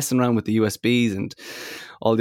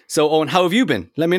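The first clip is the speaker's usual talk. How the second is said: excited; 7 semitones higher, 3 dB louder than usual. Real, not acted. Cheerful lucky-day exclaim.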